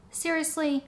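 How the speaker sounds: a high, disbelieving Seriously; incredulous. Retold or imitated. Vlogger retelling her reaction to the shipping wait, high incredulous. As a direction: pitch jumps way up on Seriously, in disbelief. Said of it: "And I'm like".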